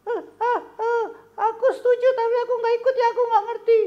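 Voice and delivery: put-on very high childlike puppet voice, pouting; a little puppet friend sadly telling news; squeaky puppet voice. Puppet Kobun telling the host his brother stayed away, high puppet voice.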